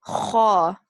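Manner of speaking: "Kha" loud and rasping from the back of the throat; sharp Kha. Shown as a demonstration. Teacher showing the back of throat sound. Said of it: "sound in your back of the throat".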